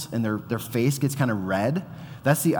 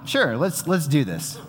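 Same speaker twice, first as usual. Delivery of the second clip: amused bravado; 5 semitones higher than usual. Retold or imitated. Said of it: "I'm like".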